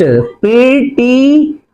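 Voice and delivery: letters spelled out very slowly; dictating each letter at a crawl; slow spelling out. Shown as a demonstration. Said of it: "वाई का बनाया मैंने आई".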